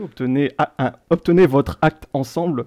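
deadpan, phrase-by-phrase recital; monotone lyric reading. Pretend. Quizmaster reads badly translated song to players, monotone. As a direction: read clumsy translated lyrics like plain text. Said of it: "vous les lire de manière un peu monotone".

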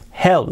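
"Help" with a breathed H and a clear L; "Help" carefully pronounced, H aspirated. Shown as a demonstration. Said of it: "la H aspirada y la L".

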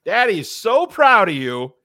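hammed-up proud parent praising a little kid; gushing proud dad. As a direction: lay on the fatherly pride thick. Acting a dad praising failing son.

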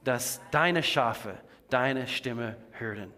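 group reading a confession together; male female unison. Real, not acted. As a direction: speak it in unison with the congregation. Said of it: "diese Bekenntnis zusammen aussprechen".

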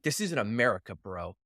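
imitated deadpan, dropping away on "bro"; deadpan serious. Canadian Mountie setting an American straight, deadpan serious. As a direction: say it level and dead serious, as a retold warning. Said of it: "he deadpan serious".

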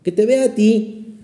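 prayerful plea that climbs; pleading prayer. Acted. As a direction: plead with the Lord, lifting the pitch on the last requests. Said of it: "vamos a pedirle al Señor".

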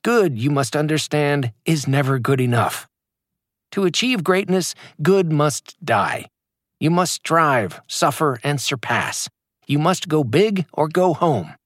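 lightly hammed guru preaching, slowing on key phrases; understated impression of a hype coach; mock motivational speaker. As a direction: parody the self-help sermon without going over the top. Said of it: "they cry".

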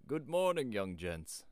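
put-on old country shepherd, high and loud greeting. A narrator's reading. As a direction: hail them loudly like an old rustic. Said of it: "was an old shepherd".

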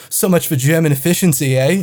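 retold quip with a hint of a Canadian accent; vaguely Canadian accent. Woman in check-in line grumbling to a stranger, vaguely Canadian accent. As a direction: mimic her with an uncertain, Canadian-like accent. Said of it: "What was that accent?".

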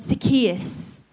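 gently calling his name; loving call. Retold or imitated. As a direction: say his name like a mother would. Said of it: "said like that, in that tone".

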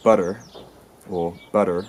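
"butter" in a Southern US accent, tapped T and r-coloured ending. Shown as a demonstration. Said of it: "a southern U S accent it would be".

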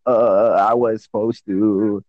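slow, halting mock fumble; mock stumbling. Friend mocking Seth for stumbling on his words, slow mock fumbling. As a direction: drag it out as if lost for words. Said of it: "stumbling on your words".

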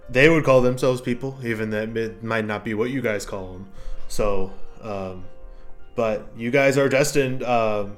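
an ancient mushroom speaking after centuries; gruff mushroom voice. Acted.

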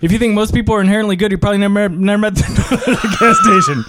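high-pitched rapid-fire rattle, collapsing into laughter; fastest talking. Acted. Third try at the fast talker card, rapid-fire. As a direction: push the speed until it falls apart laughing. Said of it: "Whoa, third time's a charm".

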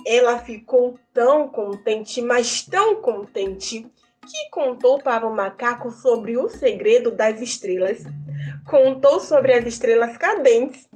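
put-on lively storyteller voice for kids; reading to children. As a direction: tell the tale to children with wonder. Tells a folk tale to children.

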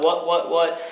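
three quick duck quacks; duck call. Shown as a demonstration. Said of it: "So like".

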